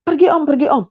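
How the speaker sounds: shouting go away. Retold or imitated. Anak mengusir tamu, berteriak. (teriakan tinggi mengusir)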